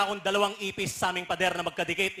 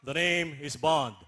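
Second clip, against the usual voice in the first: low, slow mock Korean accent; 4 semitones lower, slower than usual. Korean friend retaking the Bond line, low Korean accent. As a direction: say it slowly with a put-on Korean accent. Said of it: "Sabi ng Koreano".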